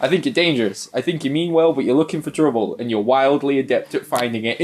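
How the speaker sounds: lightly voiced noir detective; a hint of a hard-boiled narrator; noir voiceover. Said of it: "It is noir voice".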